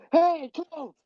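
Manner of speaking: high, mock yell of a name. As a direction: call out to Colt across the room. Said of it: "then she yells".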